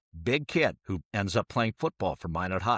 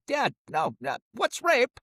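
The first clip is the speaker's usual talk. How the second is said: put-on persistent kid; 12 semitones higher, slower than usual. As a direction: push the question like a stubborn kid. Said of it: "I persisted".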